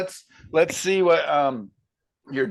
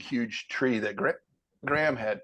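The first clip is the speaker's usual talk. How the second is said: speaking through hiccups; halting speech with hiccups; 5 dB quieter than usual. Real, not acted.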